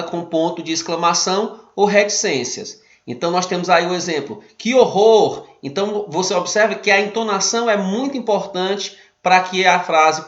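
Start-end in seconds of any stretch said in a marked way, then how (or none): 4.6-5.5 shocked exclamation, raised and louder; exclaimed. Shown as a demonstration. Teacher showing students an exclamation, with an expressive shocked tone. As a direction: react with real dismay. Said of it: "A entonação expressiva, a reação mais exaltada".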